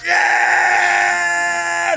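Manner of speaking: loud, high whoop of relief; pilot's whoop. Retold or imitated. Pilot cheers as the plane drops off the cliff, loud and high.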